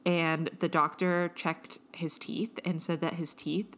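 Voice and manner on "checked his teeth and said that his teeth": hushed whisper aside. Real, not acted. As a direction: say it under the breath. Unvoiced aside about vet.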